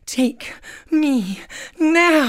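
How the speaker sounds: hammed-up romantic heroine; melodramatic Claire. Claire offers herself to her Scottish warrior, melodramatic. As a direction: declare your love melodramatically. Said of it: "we wrote this sketch based on Outlander".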